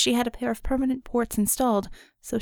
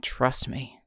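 much lower, strained grunt; 8 semitones lower, 4 dB quieter than usual. A narrator's reading. Wounded Red answering his medic, grunted low. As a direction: push it out through pain. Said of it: "Red grunted".

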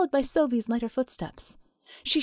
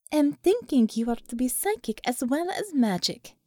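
put-on amused Russian accent. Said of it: "came the amused reply".

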